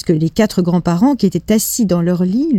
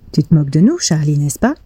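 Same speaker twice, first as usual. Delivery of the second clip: very soft voice; faster than usual. Acted. Grand-papa Joe gently asks Charlie if he's joking, softly. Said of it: "d'une voix très douce".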